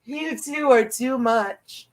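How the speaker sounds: slow, drawn-out fond scold; slow doting repeat. Real, not acted. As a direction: savour each word fondly. Repeats to pets, slower.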